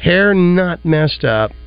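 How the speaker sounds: building a movie scene with relish; eager movie pitch. Acted. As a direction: pitch it like a hyped trailer. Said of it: "Picture this scene right here".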